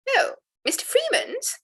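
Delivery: drawn-out, high, startled "Oh"; evident surprise. A narrator's reading. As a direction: let the surprise lift the whole line, slowly. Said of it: "with evident surprise".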